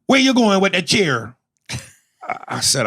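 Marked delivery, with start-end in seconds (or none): 0.1-1.3 loud, high-pitched Jamaican housekeeper; Jamaican woman. Retold or imitated. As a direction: demand it in a raised Jamaican accent. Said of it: "is a six-foot-two Jamaican woman".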